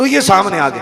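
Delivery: rising, high, loud proclaiming tone.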